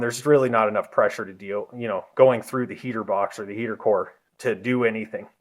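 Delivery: slightly winded while talking; short of breath, real. Real, not acted. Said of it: "I'm a little out of breath".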